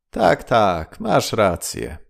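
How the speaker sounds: loud sarcastic agreement, dripping irony; ironic exclaim. Acted. Wife mocks her hopeful husband with loud irony. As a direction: call it out mockingly, not meaning a word. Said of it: "zawołała żona z ironią".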